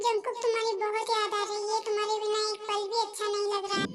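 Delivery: soft, quiet longing; wife alone after the fight, quietly longing; missing him. Acted. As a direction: murmur it to yourself, aching for him. Wife alone misses her husband.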